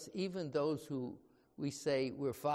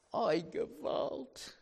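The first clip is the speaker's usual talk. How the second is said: angry; 6 semitones higher, slower than usual. Acted. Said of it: "It caused Jonah to be very angry".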